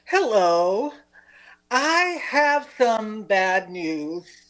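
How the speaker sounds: slow, drawn-out mock sorrow; very sad. Teacher bringing bad news to a student, very sad. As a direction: deliver it sadly, stretching each word. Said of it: "we're all very sad".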